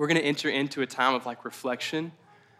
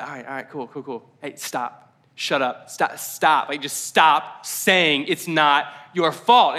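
mock exasperation; 5 dB louder, slower than usual. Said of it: "and he's like".

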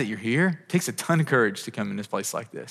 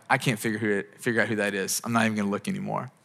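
lower, softer dismissal; giving up; 4 semitones lower, 5 dB quieter, faster than usual. Acted. Acting out a person in a crowd who stops looking, giving up. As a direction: drop the voice as if giving up.

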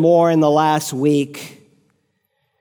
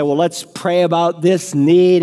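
pious brush-off. Retold or imitated. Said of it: "You say".

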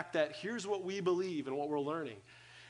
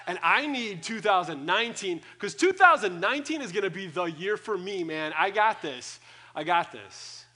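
pumped up; 5 dB louder than usual. Retold or imitated. Eager for new year.

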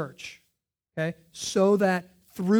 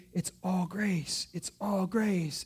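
slow soft refrain; 6 dB quieter, slower than usual. Acted. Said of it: "repeated refrain".

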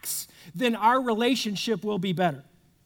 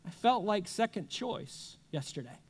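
much softer, gently owning the feeling; soft hurt admission; 2 semitones lower, 8 dB quieter than usual. Retold or imitated. To a spouse on the computer, a soft hurt confession. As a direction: say it softly, just naming how you felt. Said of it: "you might say something like".

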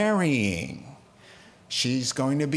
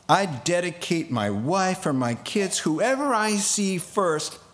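Jephthah's vow. Retold or imitated. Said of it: "let me read it to you with a little bit of what he might have meant".

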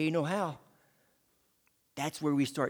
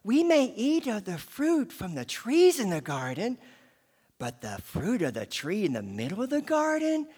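voicing Eve. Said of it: "I'm pretty sure this is how she sounded".

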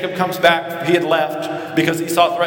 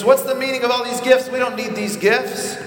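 raised, incredulous brotherly question; Esau protesting gifts; 7 semitones higher than usual. Retold or imitated. Esau turning down Jacob's gifts, raised and incredulous. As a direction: ask why he sent all this. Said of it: "And he says".

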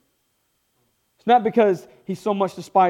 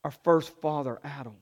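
prayer; 3 semitones lower than usual. Real, not acted. Pastor prays before sermon.

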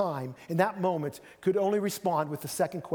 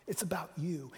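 whisper; 7 dB quieter than usual. Shown as a demonstration. Jesus turning it to Pilate.

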